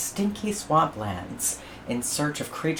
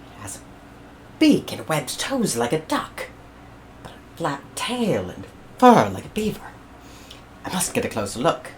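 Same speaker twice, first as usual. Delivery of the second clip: George studying the beast; 4 semitones higher than usual. Acted. George voiced in story.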